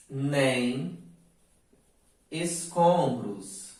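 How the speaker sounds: each word drawn out with long pauses; slow verse recitation. Shown as a demonstration. Teacher dictating poem lines slowly to students. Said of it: "Os versos são, entre aspas, ó".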